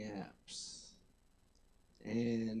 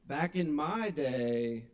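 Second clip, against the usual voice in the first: grandpa voice; slower than usual. Shown as a demonstration. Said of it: "now I really sound like a grandpa".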